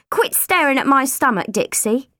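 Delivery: snapping. Acted. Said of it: "Mum snapped".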